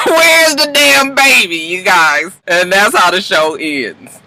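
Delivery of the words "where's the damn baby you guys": mock frantic. Real, not acted. Mocking Laurel's panic.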